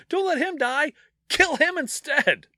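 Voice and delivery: high, loud mob shout. Retold or imitated. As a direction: yell it like an angry crowd. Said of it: "It's like".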